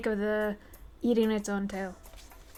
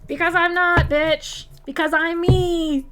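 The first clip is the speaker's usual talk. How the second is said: 1 defiant retort; 7 semitones higher, 7 dB louder than usual. Acted.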